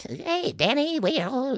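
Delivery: high squeaky elf, breaking off. Acted. Actor in the scene slipping into elf, high voice. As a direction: jump up into a tiny elf voice. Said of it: "gonna do the voice".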